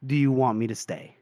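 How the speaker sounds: low, gentle question after a pause; understated sincere offer. Retold or imitated. Retelling Friendly's offer to stay with Casca, understated and sincere. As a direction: ask simply, with restrained feeling.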